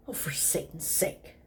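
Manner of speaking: breathy whispered exasperation; hushed exasperated aside. Acted. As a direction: mutter it under your breath, fed up.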